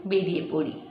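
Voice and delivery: slow, measured dramatic recitation with long pauses; expressive verse reading, unhurried; poetry recitation. Acted. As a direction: recite it like a story-poem, weighting each phrase. Recites a poem.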